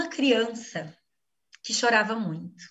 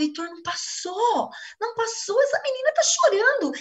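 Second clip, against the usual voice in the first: rising higher with each phrase, pleading; desperate insistence; 10 semitones higher than usual. Retold or imitated. Wife insisting to Heitor the crying hasn't stopped, rising and pleading. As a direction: insist it hasn't passed, climbing in pitch. Insisting to husband it didn't pass.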